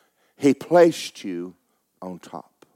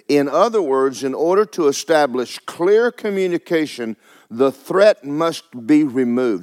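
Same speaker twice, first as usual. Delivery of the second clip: slow, raised teaching from the pulpit; emphatic preaching; 4 semitones higher, 6 dB louder, slower than usual. Acted. Preacher explaining threat and communication to congregation, emphatic preaching. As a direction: drive each point home forcefully.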